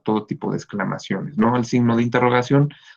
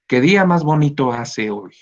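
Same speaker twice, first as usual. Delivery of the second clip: exclaimed higher and brighter with wonder; exclamation intonation demo; 4 semitones higher, 3 dB louder than usual. Shown as a demonstration. Teacher reading an exclamation example to the class, exclaimed higher. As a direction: read it as a delighted exclamation. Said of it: "el signo de exclamación".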